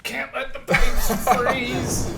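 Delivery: put-on high, slow, laughing Canadian accent; terrible Canadian accent. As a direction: drawl it in a hammy Canadian accent. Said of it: "that was a terrible Canadian accent".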